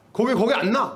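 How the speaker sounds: mock harsh scolding; rough snap. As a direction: bark it roughly at someone. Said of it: "거칠을 이렇게 보면 안 돼요".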